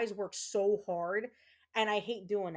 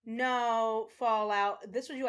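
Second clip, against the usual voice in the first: ordinary talk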